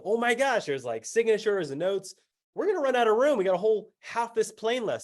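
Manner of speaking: high-pitched acted excitement; retold thrill at a discovery; excited amazement. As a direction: gush in happy alarm, pitch jumping up. Thrilled discovery inside the folder.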